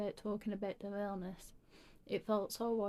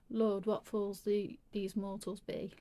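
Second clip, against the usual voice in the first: slow, hammed-up bad British accent; slow mock British accent, Shakespeare pose; 4 dB louder, slower than usual. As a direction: ham up a clumsy British stage accent. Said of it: "the worst British accent".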